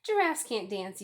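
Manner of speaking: loud scornful jeer; sneering. Acted. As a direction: spit it out as an insult. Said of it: "the animals all sneered".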